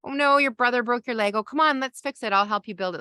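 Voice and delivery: high, eager fix-it parent; chirpy rush to fix the problem. Shown as a demonstration. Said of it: "our instinct might be to fix the problem".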